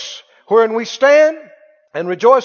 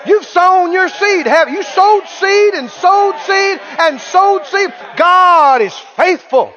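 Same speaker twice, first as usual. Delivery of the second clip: excited encouragement; 5 semitones higher than usual. Retold or imitated. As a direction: pump your friend up with growing fervour. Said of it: "jump on that with both feet".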